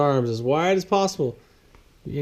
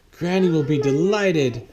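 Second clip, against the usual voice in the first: mild exclaim; 4 semitones higher, 4 dB louder than usual. Acted. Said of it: "Shelley exclaimed".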